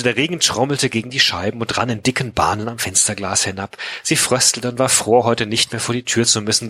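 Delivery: measured audiobook-style reading; storyteller reading prose and dialogue; story narration. A narrator's reading. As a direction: read the novel aloud, shaping each sentence. Reads a novel aloud.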